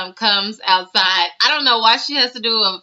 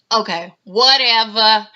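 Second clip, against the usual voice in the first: a rapper's voice. Retold or imitated. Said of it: "in a rapper's voice".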